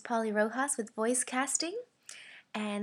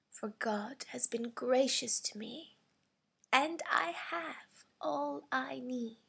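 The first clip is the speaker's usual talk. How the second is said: put-on old person; 5 dB quieter than usual. Shown as a demonstration. Voice actor's audition read of offering a gift, aged voice. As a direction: sound old and frail without going cartoonish. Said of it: "as old as you can sound without sounding like a cartoon read".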